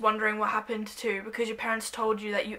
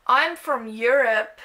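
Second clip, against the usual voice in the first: sultry; 4 dB louder, slower than usual. Pretend. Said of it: "just sounds like a porno".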